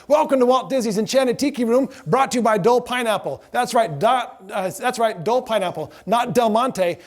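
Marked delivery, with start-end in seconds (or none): 0.1-3.4 spiel. Retold or imitated. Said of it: "I said".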